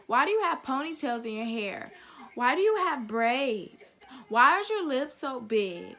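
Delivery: lightly mimicked nosy kids, drawn-out questions; mock each prying question with a slow swoop; pestering little girls. Little white girls questioning her looks, mimicked pestering. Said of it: "They used to talk about my lips".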